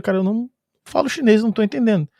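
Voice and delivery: steady, earnest, no laughter in it; calm and serious. Retold or imitated. To the shouting policeman, an earnest calm plea. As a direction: say it seriously, keep your cool. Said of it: "calmo, né, sem dar risada, mas falando sério".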